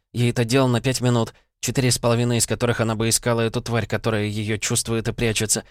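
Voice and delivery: lightly voiced upset girl on the phone; a hint of a worried young woman. Ira's voice on the phone.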